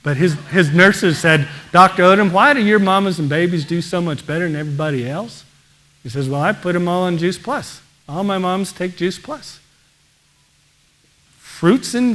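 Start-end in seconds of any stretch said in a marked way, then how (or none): 1.7-5.4 imitated Mississippi nurse, lightly done; bad Mississippi accent. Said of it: "sorry if this is a bad Mississippi accent". 6.3-9.6 lightly imitated Mississippi doctor; bad Mississippi accent. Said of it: "sorry if this is a bad Mississippi accent".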